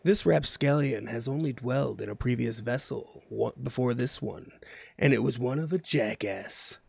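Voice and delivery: measured, pondering dramatic recital; mock-solemn spoken-word reading; coffee shop poetry reading. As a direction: read it like a sad, deep piano-backed monologue. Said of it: "I wanna read the tweets like this".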